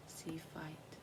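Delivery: soft unvoiced whisper; whispered note to self. Real, not acted. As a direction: murmur it to yourself. Reading a card quietly.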